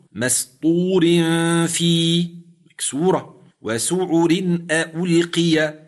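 each word recited slowly, ra with kasra thinned; recited examples. Shown as a demonstration. Sheikh reciting examples of the thin ra, slowly. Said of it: "هل تغير الحكم".

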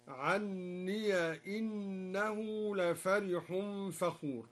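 "عني" said anniya, ending in ya; slow drawn recitation, open ya on "عني"; fatha on the ya. Shown as a demonstration. Teacher showing the same rule, "عني" as anniya. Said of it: "وكذلك قوله تعالى".

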